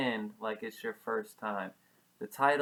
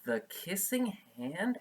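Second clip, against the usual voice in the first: put-on high wondering child's question; curious child; 6 semitones higher than usual. Chester asks his mother about the kissing hand, high and curious. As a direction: ask it wide-eyed like a little boy. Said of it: "asked Chester".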